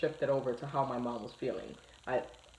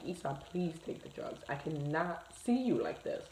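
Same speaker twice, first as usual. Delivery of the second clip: retold tearful plea; 5 dB quieter than usual. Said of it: "like, crying".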